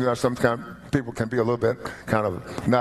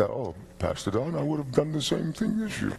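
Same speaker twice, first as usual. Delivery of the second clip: congregation quoted; 7 dB quieter than usual. Retold or imitated. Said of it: "some of y'all look at me and say".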